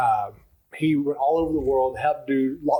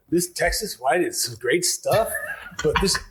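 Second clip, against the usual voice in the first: put-on amateur Irish accent, a little higher; 3 semitones higher, slower than usual. Quoting an Irish customer on wine, attempted Irish accent. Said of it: "do it in my best Irish accent".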